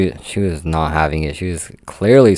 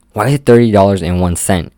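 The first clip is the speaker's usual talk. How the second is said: louder mock outrage at the price; indignant customer; 3 semitones higher, 8 dB louder than usual. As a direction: play the affronted customer demanding why. Customer indignant over tax cent.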